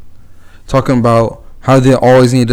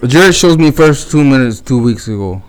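put-on Russian accent. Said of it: "talking like a fucking Russian".

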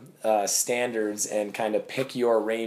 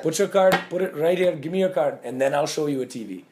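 higher, louder pushy salesman demanding the card; imitating pushy coworker; 5 semitones higher, 3 dB louder than usual. Coworker demanding a customer's card, pushy and loud. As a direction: bark the order like a hard-selling coworker. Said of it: "this brown guy that would say".

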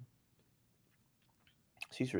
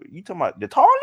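higher-pitched imitation of a Florida "toilet"; mock Florida accent; 7 semitones higher, 4 dB louder, much faster than usual. Retelling co-host's toilet question, mock Florida accent. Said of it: "that's how you talk".

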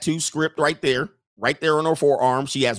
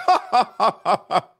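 high fake ha-ha-ha; mock forced staccato laughter; marital laugh of doom; 7 semitones higher, 4 dB louder than usual. Wife laughing along on camera, fake doom laugh. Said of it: "The marital laugh of doom".

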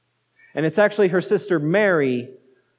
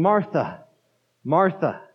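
calm and gentle. Shown as a demonstration. Preacher showing Jesus calling Martha gently. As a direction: say it gently, like a friend. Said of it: "in a calm and gentle voice".

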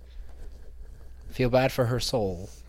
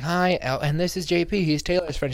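higher, chirpy party introduction; cheerful higher mock hostess voice; acting out the friend; 6 semitones higher than usual. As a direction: brightly introduce her round the room. Friend introduces her to people.

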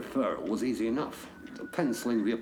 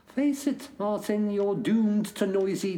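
self-mocking; 10 semitones higher, 5 dB louder than usual. Berating himself.

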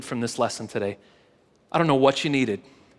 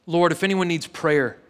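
closing prayer. Real, not acted. Pastor praying over congregation before communion, earnest. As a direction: pray it humbly for the room.

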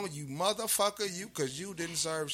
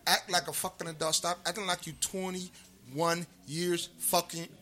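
heated rant; 5 dB louder than usual. Real, not acted. Ranting to Mayweather during minute rants, loud scolding.

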